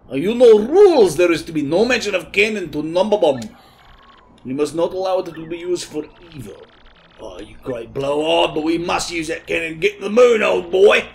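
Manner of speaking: rally them like a blustering colonel; dramatic old general. Acted. The general warns of the world ending, pompously.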